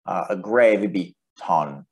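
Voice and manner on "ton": ton with the pitch going down; falling tone. Shown as a demonstration. Teacher showing a Greek grave accent, tone going down. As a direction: let the tone of "ton" slide downward. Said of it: "going down".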